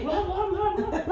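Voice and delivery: high, loud blah blah blah, laughing; mock nagging. A wife mocking how she picked fights with Amber, high and laughing. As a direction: send up her own nagging rant. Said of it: "I'm like".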